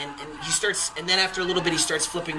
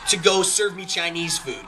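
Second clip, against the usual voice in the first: pissed off musician; 4 semitones higher than usual. Retold or imitated. Lead singer to a drunk heckler, pissed-off telling-off. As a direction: act out a fed-up singer delivering his zinger. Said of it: "from a pissed off musician".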